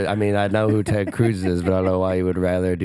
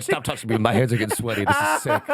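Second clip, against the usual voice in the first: mock panic; 2 semitones higher, faster than usual. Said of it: "I'm like".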